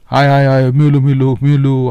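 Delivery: mild mock yell of a dreamer; a hammed-up half shout of a sleeper. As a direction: cry out a name as if waking from a nightmare. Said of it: "असाच वरडणार".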